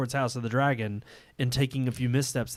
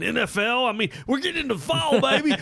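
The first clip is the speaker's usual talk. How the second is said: excited; 10 semitones higher than usual. Real, not acted. Excited about fall season.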